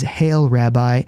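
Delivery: slow, drawn-out Hail, Rabbi with a smile; mild smiling betrayal, taken slow; slow smiling greeting. Retold or imitated. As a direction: let the greeting linger slowly. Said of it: "with a kiss now and with a big smile".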